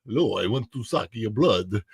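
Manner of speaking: Italian accent slipping into vampire; hammy Italian-vampire voice; Dracula. Shown as a demonstration. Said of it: "sometimes I sound like a Dracula".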